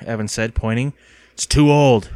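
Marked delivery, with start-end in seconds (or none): 1.3-2.1 insisting. A narrator's reading. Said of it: "the man insisted".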